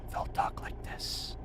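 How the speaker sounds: soft, hushed, very quiet ASMR-style whisper. Showing how ASMR creators talk on YouTube: ASMR-style whisper. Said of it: "And they'll whisper".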